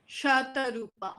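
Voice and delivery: "Shata Rupa" broken into four syllables. Shown as a demonstration. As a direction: say "Shata Rupa" as four separate beats, Sha-ta-Ru-pa.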